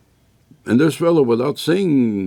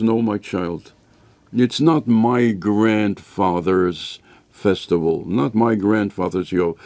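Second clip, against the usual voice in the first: lower, slow fatherly reassurance; gentle father; 3 semitones lower than usual. Acted. Father answers kid gently.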